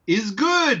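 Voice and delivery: mock foreign strongman's approval; Colossus. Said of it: "his first thing he says at all is".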